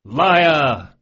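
jeering shout. A narrator's reading. Thieves jeering at Carlo's toast, shouting. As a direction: bellow it to mock the boast.

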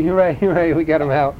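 high gleeful cheer. Acted. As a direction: cheer like you just won. Robot cheering in story.

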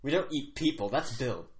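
lightly voiced mock British; a hint of indignant put-on British; put-on British accent. Chief's son denying they eat people, put-on British accent. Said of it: "he is British".

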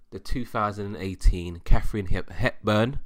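talking with loose false teeth; words slurred by slipping teeth; loose dentures. Real, not acted. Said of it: "I need to put my teeth back in".

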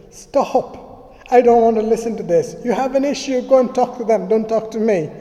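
loud, high, stern quote of her; imitating a stern interruption; sharp cut-off. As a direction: cut them off firmly. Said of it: "suddenly she'll cut through all that conversation".

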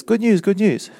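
a messenger's joyful cry; herald's call. Acted. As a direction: announce it like a runner bursting into the city. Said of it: "a runner comes in and says".

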